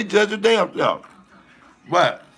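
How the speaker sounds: ordinary talk, nothing marked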